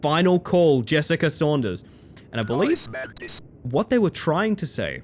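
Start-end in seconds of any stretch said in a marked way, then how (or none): 0.0-1.8 intercom announcer. Retold or imitated. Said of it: "Then a couple minutes later".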